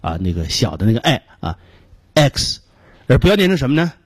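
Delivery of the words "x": "X" with a small short e; short vowel. Shown as a demonstration. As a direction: keep the vowel of "X" tight and short.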